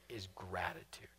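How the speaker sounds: hushed whisper on the answer; a preacher whispering the remedy. Real, not acted. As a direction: breathe the word gratitude. Sermon climax, hushed answer.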